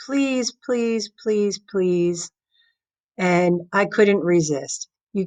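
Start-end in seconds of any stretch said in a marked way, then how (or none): 0.1-2.3 lightly mock pleading please, please; a hint of a begging student. Student begging teacher for the bill, mock pleading. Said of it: "you begged and you begged".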